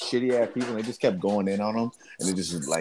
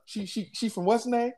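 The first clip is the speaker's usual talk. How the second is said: pitched-up, rattled husband asking; husband thrown by the prank call, confused and higher; high confused stammer; 13 semitones higher, 4 dB quieter than usual. Retold or imitated.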